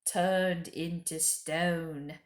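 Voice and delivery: slow, hushed horror on turned into stone; a slow fearful whisper-like dread; shuddering dread. Acted. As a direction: let it shudder out slowly. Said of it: "he paused and shuddered".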